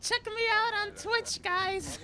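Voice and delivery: high loud streamer plug; hype streamer voice. Pretend. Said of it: "I kinda wanna be like".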